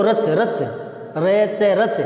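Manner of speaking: crisp repeated "rach", no i after च; correct syllable रच. Shown as a demonstration. Teacher drilling students on the root word, correct syllable. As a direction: say रच as "rach", closing on च with no "ee". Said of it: "रच बोलो".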